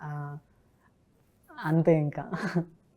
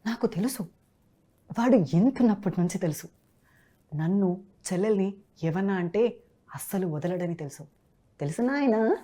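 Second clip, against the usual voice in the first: Shwetha; 2 semitones higher than usual. Acted. Dubbing artist imitates a colleague's voice on the host's request, lightly acted film dialogue. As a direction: act it as dubbed film dialogue, pausing between phrases, lifting at the end. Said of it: "శ్వేత గారి వాయిస్ని కూడా ఒకసారి imitate చేయాలి".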